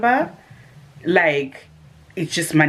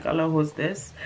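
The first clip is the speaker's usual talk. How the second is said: feigned ignorance; 6 dB quieter than usual. Retold or imitated. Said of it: "trying to act like you don't know".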